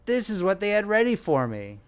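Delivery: quavering. Acted. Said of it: "he quavered".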